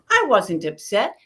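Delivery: mock defensive retort; argumentative denial. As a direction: deny it at once, as in a squabble. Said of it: "See, it's a debate. It's an argument".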